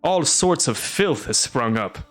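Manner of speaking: a lightly voiced blustering official, sneering; mocking castellan. Castellan threatens the witcher, sneering and blustering. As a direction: threaten him with the dungeon, half amused. Velerad complains about monsters.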